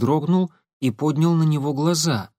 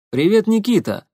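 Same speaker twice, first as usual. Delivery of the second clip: bright, raised, louder hello; glad greeting; 9 semitones higher, 5 dB louder than usual. Acted. Igor greeting Nikita, glad and loud. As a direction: greet a friend with real joy. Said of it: "обрадовался он".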